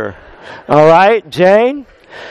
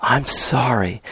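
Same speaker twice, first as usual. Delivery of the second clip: soft apology; 6 semitones lower, 7 dB quieter, slower than usual. Shown as a demonstration. Pastor voices the other person apologising, quietly and sincerely. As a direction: lower and softer, a quiet sincere sorry. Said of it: "or to say".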